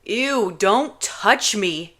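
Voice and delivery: drawn-out disgusted ew; grossed out. Acted. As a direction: squirm away from her touch. Kenji recoiling from Juliet.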